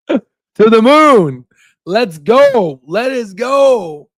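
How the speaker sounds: slow, stretched rally cry; drawn-out cheer. Real, not acted. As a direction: draw out every word like a chant. Cheering the stock on.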